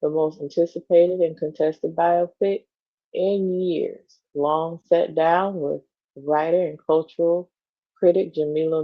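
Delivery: even, measured magazine read; article read-aloud. Acted. Co-host reading a celebrity profile to the other, measured read-aloud.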